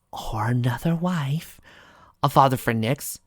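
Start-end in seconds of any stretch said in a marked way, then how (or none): 0.1-1.6 whisper. Acted. Whispered aside.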